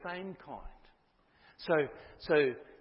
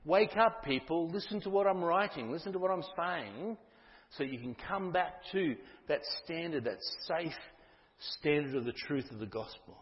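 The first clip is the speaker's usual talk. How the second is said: urgent call; 2 semitones higher than usual. Acted. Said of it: "with a real sense of urgency".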